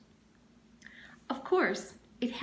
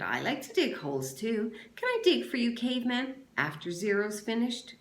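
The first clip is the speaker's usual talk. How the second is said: higher, teasing volunteer; mock-sweet offer to dig; sarcastic offer; 4 semitones higher than usual. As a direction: lay the fake eagerness on thick. Armpit mocking the deal.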